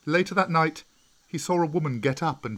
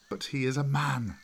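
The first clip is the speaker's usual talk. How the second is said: snarled; 3 semitones higher than usual. A narrator's reading. Wolves of the pack snarling against Mowgli, a snarled protest. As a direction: growl it out, rising on the second man. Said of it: "snarled many in the pack".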